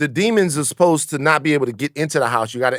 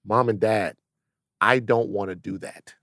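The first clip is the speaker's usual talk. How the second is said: hushed nervous confession; 7 semitones lower, 6 dB quieter than usual. Pretend. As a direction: quietly confess to your parents. Voicing himself to his mom.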